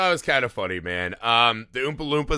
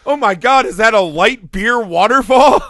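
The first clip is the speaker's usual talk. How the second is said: mock awestruck kid; 9 semitones higher, 9 dB louder than usual. Picturing a beer waterfall in Wonka's garden, high amazed cry. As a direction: marvel at it like a kid in paradise. Imagining a kid's dream place.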